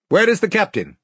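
high, imperious demand; commanding king. A narrator's reading. Caspian giving the guards no time to think, commanding. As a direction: demand it as a king taking charge.

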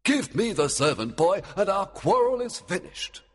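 a king bargaining firmly; demanding Oberon. A narrator's reading.

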